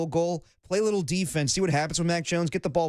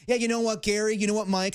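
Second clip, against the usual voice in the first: chummy mock coach; 6 semitones higher than usual. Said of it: "even when he's pissed off".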